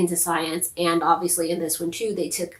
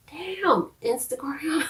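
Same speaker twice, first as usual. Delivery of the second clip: real annoyed outburst; 9 semitones higher, slower than usual. Real, not acted. Phone interrupts her recording.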